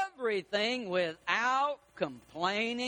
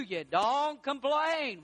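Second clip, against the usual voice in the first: shouted sermon point; 3 semitones higher, much slower than usual. Acted. Preacher answering his own question to the church, shouting. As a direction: drive the point home with a shout. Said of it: "preaching emphasis, shout".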